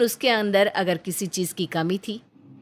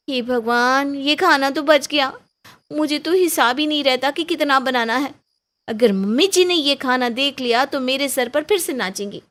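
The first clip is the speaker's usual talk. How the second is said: higher and louder, flustered panic; panicked young wife; 7 semitones higher, 7 dB louder than usual. Acted. Aarti talking to herself, dreading her mother-in-law's anger, panicked. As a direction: fret aloud in a rush, scared of getting caught.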